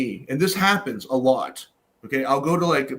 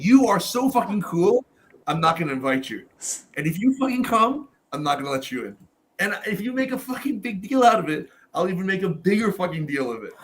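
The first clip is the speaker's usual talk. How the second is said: mock-indignant rant with pitch leaping up; half-playful grumbling, high on each challenge; grumpy rant; 5 semitones higher than usual. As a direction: rant like a grumpy old host laying down the law. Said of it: "ranting and being an old grumpy dude".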